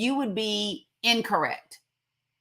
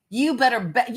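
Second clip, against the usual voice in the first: ordinary talk, nothing marked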